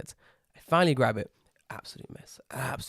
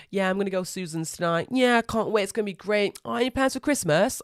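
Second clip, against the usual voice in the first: casual chatty staff; 5 semitones higher than usual. Retold or imitated. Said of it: "Casual chat".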